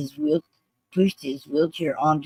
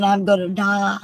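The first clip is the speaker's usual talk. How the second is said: retold screaming; 3 semitones higher, 4 dB louder than usual. Veteran crying out within earshot of cops, retold screaming. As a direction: imitate a desperate man's cry, held partly back. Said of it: "he starts screaming".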